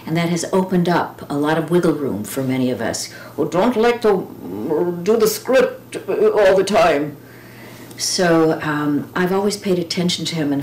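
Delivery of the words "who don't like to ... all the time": a lightly put-on high, jokey voice for those who dodge the script; playful high mock voice. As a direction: tease them in a raised voice. Mock voice of script-averse people.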